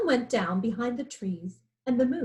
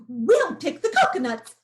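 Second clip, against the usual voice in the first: louder, higher monkey call; monkeys' cheerful shout; 4 semitones higher, 6 dB louder than usual. A narrator's reading. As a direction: call it out eagerly like excited monkeys. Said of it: "shouted the monkeys".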